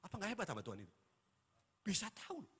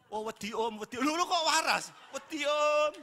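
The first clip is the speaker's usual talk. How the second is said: higher, louder laughing whimper of a frightened demon; scared demon; 9 semitones higher, 11 dB louder than usual. Retold or imitated. Pastor voicing a frightened demon pleading, mock scared. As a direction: play the demon begging, hammed up.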